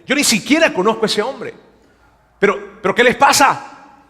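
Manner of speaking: mock-panicked denial under oath; swearing denial. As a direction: protest too much, tripping over words. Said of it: "esta vez con un juramento".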